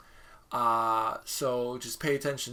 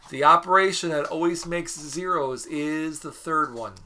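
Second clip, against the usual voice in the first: louder, emphatic key-point delivery; write-this-down voice; 5 dB louder than usual. Shown as a demonstration. Teacher repeating the rule for note-takers, write-this-down voice. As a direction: state it firmly for note-takers. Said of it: "I'm using my write this down voice".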